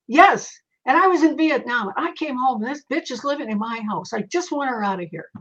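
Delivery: mild retold anger, sharper on the yes; angry ghost. Medium to ghost, a retold angry soldier. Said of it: "He was really angry".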